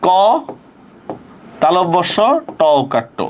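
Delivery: piece-by-piece dictation of "kawsh-to"; teacher sounding out ক, তালব্য স, ট ওকার; pronunciation spelled out. Shown as a demonstration. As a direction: spell কষ্ট in separate pieces, open "kaw", final rounded "to". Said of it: "তাহলে কি হবে?".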